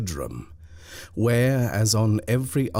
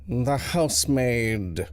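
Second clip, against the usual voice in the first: detached; 5 semitones higher, slower than usual. Acted. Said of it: "said the butler with detachment".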